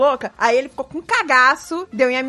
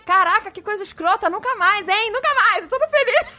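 retold alarmed vow; 9 semitones higher than usual. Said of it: "eu fiquei muito preocupada".

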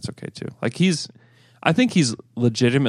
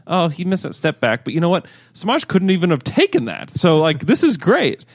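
excited fan; 5 semitones higher than usual. Retold or imitated.

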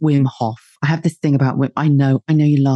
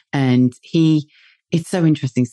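usual speaking voice

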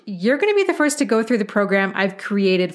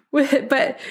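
laughing as she resumes the story; real laughing; 5 semitones higher than usual. Real, not acted. Recalling grandma's remark about her math, laughing. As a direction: break into a laugh before carrying on. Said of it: "I mean, I'm laughing now".

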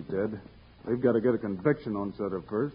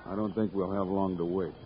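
low, softer hushed voice; 6 semitones lower, 6 dB quieter than usual. Acted. Bill hushes Jingles as they wait in ambush, low and soft. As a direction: keep it down while lying in wait. Lying in wait behind Gadsden's place.

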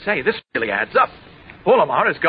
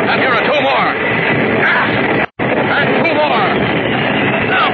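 heroic battle shouts. Acted. Superman fighting the planes.

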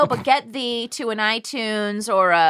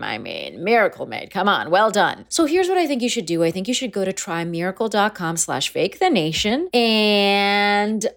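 sponsor ad read. Acted. Host reads sponsor ad.

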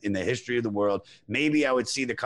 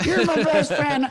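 stoner voice; 14 semitones higher, 5 dB louder than usual. Pretend. Echoes the stoner voice.

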